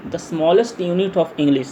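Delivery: very slow, word-by-word dictation; drawn-out words at note-taking speed. Shown as a demonstration. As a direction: read it out slowly for students to copy down. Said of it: "धीरे धीरे मैं बोलूँगा".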